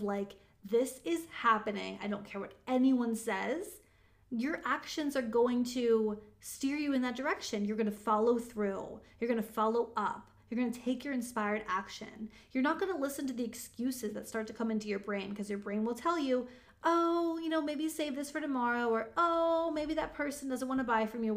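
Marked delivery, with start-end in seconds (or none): 0.6-3.8 emphatic, settled declaration; super strong determination. Acted. Coach models strong energy behind a goal, determined. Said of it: "that super strong energy of". 16.8-18.9 coaxing excuse. Acted. Coach voices the brain offering excuses, coaxing. 19.2-21.3 doubting excuse. Acted. Coach voices the brain offering excuses, doubtful.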